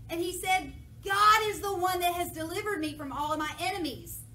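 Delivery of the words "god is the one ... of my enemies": raised, angry rebuke; mock furious king. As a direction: scold them hotly. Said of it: "David's furious".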